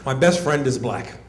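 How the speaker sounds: lightly voiced defensive white person; mock white denial. White person denying being racist, mildly mocking imitation. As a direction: protest first, then settle low and earnest. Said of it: "y'all are the first ones to denounce".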